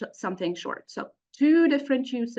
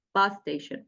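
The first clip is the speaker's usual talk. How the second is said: bus station with BUS stressed and raised. Shown as a demonstration. Teacher repeating the compound stress on BUS. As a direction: lift your voice on bus in bus station. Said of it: "we raise our voice on the first noun".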